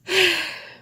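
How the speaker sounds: loud, heavy sigh of annoyance; big fed-up sigh; exasperated sigh. Real, not acted. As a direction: blow out all the frustration. Exasperated after rant.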